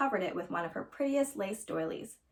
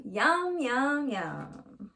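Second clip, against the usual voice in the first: yummy; 3 semitones higher, much slower than usual. Acted. Child savoring the nuts.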